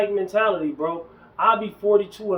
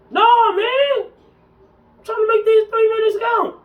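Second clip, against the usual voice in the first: much higher, louder, brushing someone off; emphatic refusal; 13 semitones higher, 4 dB louder than usual. Retold or imitated. To a gym-goer who wants to talk, loud emphatic refusal. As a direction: wave him off loudly, no time to chat.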